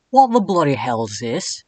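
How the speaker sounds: lightly voiced posh English ghost; a hint of a stuffy English boy; British Edwin voice. Edwin reacting to the bracelet, lightly British. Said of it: "here's my best Edwin voice".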